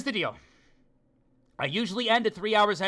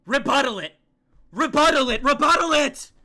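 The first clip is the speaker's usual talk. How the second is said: urging shout; 5 dB louder than usual. Real, not acted. Urging game character to rebut.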